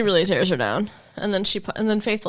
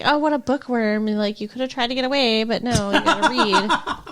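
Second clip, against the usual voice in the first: mock taunting. Faith taunting captive Willow over reading, mockingly. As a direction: imitate a teasing jab, laughing.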